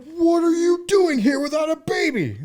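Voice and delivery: high, loud outraged yell at the parents; a kid yelling at the parents who came home with no baby; outraged shout. Retold or imitated. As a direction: bellow it like a betrayed seven-year-old. Child shouting at returning parents.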